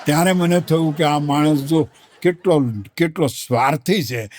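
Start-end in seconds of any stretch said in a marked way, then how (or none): none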